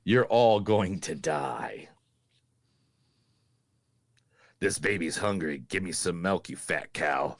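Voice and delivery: low, slow taunting demon; menacing possessed voice. Acted. Host voicing the possessed boy, low and menacing. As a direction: sneer it out like a possessed child.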